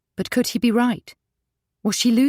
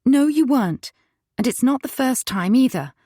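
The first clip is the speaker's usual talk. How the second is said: higher and louder, accusing; confronting; 6 semitones higher, 4 dB louder than usual. A narrator's reading. Wife confronting husband about his morning anger, loud and high. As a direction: push back hard at him.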